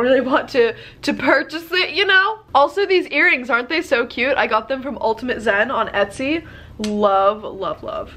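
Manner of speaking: stuffy nose, nasal tone; nasal voice from a cold. Real, not acted. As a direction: talk through a blocked nose. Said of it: "I do have a case of a nasally voice".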